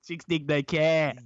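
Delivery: slow, exaggerated Boston accent as Robin. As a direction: drag the Boston vowels out. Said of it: "Boston accent for Robin".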